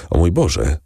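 understated cry of dismay; alarmed cry. A narrator's reading. Morel hearing the commotion on the stairs, crying out alarmed. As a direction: call on God in mild alarm. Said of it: "zawołał Morel, blednąc".

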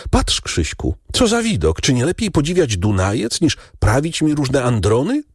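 calling out. A narrator's reading. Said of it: "zawołała do brata".

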